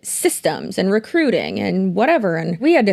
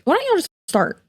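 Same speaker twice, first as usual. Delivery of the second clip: exasperated; 12 semitones higher, faster than usual. Real, not acted. Exasperated rhetorical question to MLMs.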